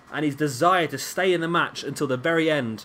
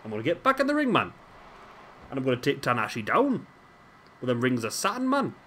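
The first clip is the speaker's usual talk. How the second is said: put-on Geordie accent. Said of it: "my best Geordie".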